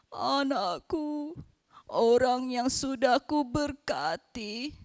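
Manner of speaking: lightly voiced old father, slow and gentle; a hint of the grieving old Isaac. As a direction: let each word of refusal fall slowly.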